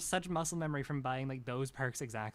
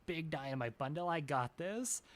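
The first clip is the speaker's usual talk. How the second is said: lightly acted boastful gamer, swaggering; hammed-up bravado; cocky player. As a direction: play an overconfident teammate announcing a big attack. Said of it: "someone's like".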